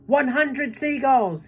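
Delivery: high, slow triumphant call; shouted count. A narrator's reading. James calling the seagull count to everyone, slow and loud. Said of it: "he shouted".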